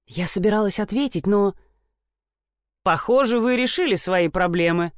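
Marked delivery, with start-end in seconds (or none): 2.8-4.9 distorted voice. Acted. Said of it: "произнёс чей-то искажённый голос".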